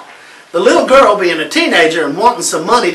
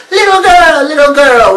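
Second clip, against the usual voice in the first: high, louder witchy call; high sing-song witch calling; 7 semitones higher, 5 dB louder than usual. Acted. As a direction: croon like a wicked witch. The witch calls the girl.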